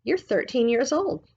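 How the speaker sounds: put-on high, knowing old lady; old woman's voice. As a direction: announce it like a fortune-teller grandma. Missus Partridge voiced.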